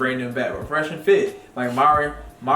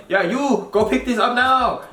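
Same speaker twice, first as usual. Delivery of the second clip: higher mock Asian accent for the shopkeeper; imitating Mister Kim; 9 semitones higher than usual. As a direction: bark the order like the old shop owner, in an Asian accent. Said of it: "Mister Kim was always in there saying".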